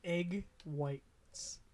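"whites" slowly, without any h; deliberate "whites" as wites, no puff of air; careful plain w. Shown as a demonstration. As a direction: separate "Egg" and "whites", plain w. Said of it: "I don't say whip or".

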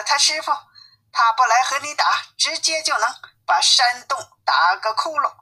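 animated warning, pitch lifting a little; lightly voiced alarmed father. Disguised Wukong warns the demon king about the monkey, lightly alarmed. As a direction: warn your son off with mild storyteller urgency.

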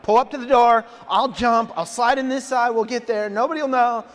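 frantic plan. Retold or imitated. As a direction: bark out a panicky plan while running late. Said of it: "I'm like".

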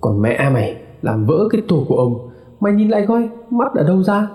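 angry scolding. A narrator's reading. Husband scolds wife for breaking the bowl, rising angry. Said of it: "ông mới hàm hàm và chửi".

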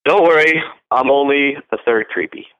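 tossing off a joke with a grin; playful teasing line. Shown as a demonstration. Coach demoing the pickup line to students, loud and playful. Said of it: "You can say that every single fucking time".

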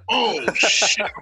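hushed, drawn-out mock shock; retold dread. Performer hearing of kidnappings, hammed-up dread. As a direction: let the dread sink in, playing it up.

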